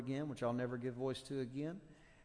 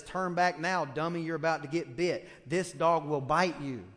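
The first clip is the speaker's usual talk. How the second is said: loud scolding sign; 5 dB louder than usual. Pretend. Preacher voicing the third sign scolding a fool, loud. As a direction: bark the sign's scold at the listener.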